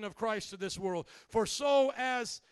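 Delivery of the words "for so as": scripture read. Acted. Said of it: "The Bible says".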